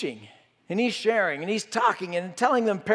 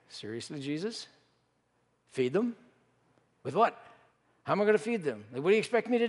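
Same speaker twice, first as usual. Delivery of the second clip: panicked disciple; faster than usual. Retold or imitated. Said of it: "that little bit of fear".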